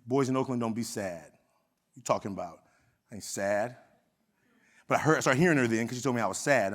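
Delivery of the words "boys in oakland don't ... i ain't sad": put-on tough defensive boy. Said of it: "I'm like".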